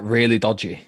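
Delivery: normal talking voice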